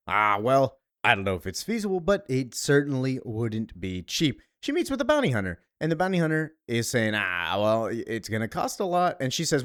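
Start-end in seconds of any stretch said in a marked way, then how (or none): 0.1-4.4 bounty hunter voice. Acted. Voicing bounty hunter in recap. 7.1-9.2 bounty hunter voice. Acted. Same bounty hunter voice again.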